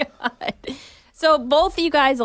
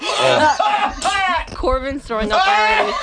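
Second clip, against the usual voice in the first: shouting; 4 semitones higher, slower than usual. Real, not acted. Friend vomiting from spice.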